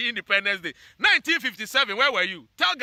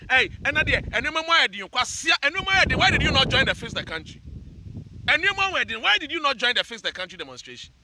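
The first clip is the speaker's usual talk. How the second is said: mock shouting protesters; 3 semitones higher than usual. People shouting at him for skipping the demonstration, raised mock jeer. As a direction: jeer like a street crowd, pitch climbing. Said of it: "some people were shouting".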